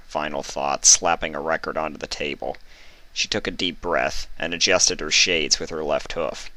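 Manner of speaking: steady storytelling read; story narration. A narrator's reading. Reader telling the story to viewers. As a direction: read the chapter like an audiobook.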